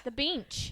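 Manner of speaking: "The beach" with a nasal n slipped in, like bench; "beach" showing the lost n; pron beach. Shown as a demonstration. Explaining the accent to co-host, "beach" for bench. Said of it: "you lost the N in there".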